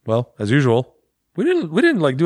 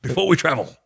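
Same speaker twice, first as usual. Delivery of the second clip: mock rallying speech. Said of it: "I don't know why I'm talking like this".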